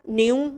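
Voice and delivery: "न्यू" starting straight on n, no k sound; silent K. Shown as a demonstration. Teacher giving the past form, "न्यू" with silent k. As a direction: say "न्यू" for knew with the k left silent. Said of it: "वो pronounce तीनों में ही नहीं करना".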